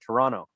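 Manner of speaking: "Toronto" said with the second T dropped; local Toronto pronunciation. Shown as a demonstration. Host shows the newcomer local speech, "Toronto" without its second T. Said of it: "long enough to be like".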